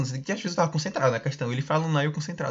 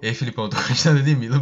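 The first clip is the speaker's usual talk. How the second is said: bem sério; 5 dB louder than usual. Retold or imitated. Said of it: "bem sério".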